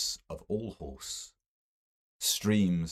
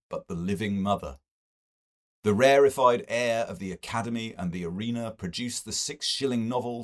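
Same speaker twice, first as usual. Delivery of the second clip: lightly voiced earnest mystic, a bit raised; earnest visionary sermonizing gently; a hint of a prophet holding forth; 3 semitones higher, 3 dB louder than usual.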